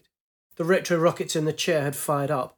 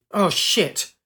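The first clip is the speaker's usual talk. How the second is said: higher sudden alarmed cry; 4 semitones higher, 4 dB louder than usual. Acted. Pilot seeing the rock rushing up, alarmed. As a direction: brace for the impact.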